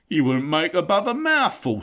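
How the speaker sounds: loud, high rough troll jeer; scornful troll. Acted. William mocks Bilbo's size, loud jeer. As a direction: sneer at the tiny snack.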